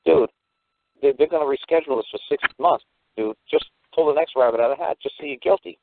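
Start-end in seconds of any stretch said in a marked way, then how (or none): 5.0-5.8 squeaky high pleading whisper; mock plea. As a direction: beg him to give up, pitched way up.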